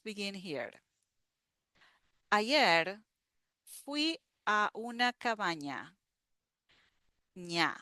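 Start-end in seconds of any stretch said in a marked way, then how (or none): 2.3-6.0 slow reading. Shown as a demonstration. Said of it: "So I'm gonna read very slow". 7.4-7.8 ña said alone with the ñ sound, nya; teacher isolating ña; isolated syllable. Shown as a demonstration. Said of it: "That's like ña".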